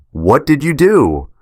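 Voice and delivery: a breathless wife crying out in shock; frantic high cry. Acted. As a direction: demand it through panic, near tears. Wife confronts him, hyperventilating.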